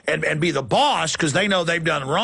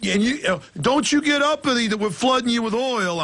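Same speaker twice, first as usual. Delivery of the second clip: put-on Italian mobster accent; 7 semitones higher than usual. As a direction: play a menacing Italian mobster. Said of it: "the Italian mobster accent".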